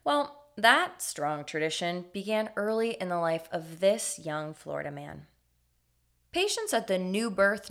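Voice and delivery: story narration. A narrator's reading. Narrates the Florida man story.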